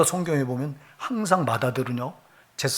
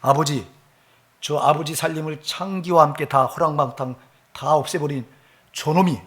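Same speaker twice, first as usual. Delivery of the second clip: mock angry retort; 2 semitones higher than usual. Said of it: "따지고 덤벼들어요".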